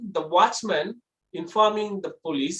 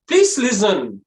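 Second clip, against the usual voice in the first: raised voice, louder; high pitch; 2 semitones higher, 6 dB louder, slower than usual. Shown as a demonstration. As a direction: lift the voice as a demo of high pitch. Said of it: "high pitch is ladies sound".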